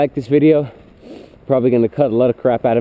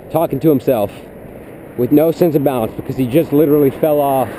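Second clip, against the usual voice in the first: mocking rival player; 4 semitones higher than usual. Rival mocks the vlogger to teammates, high and jeering. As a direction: sneer at the kid who fell off the curb. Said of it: "and you'd be like".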